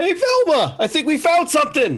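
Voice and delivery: very high, swooping, calling-out yell. Calling out to velma after finding a hidden room: yelling to velma. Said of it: "I'm yelling that".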